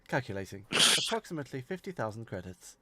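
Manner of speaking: level, quiet machine voice; computer voice. Acted. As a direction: read it out like a ship's computer. Computer system voice in RPG.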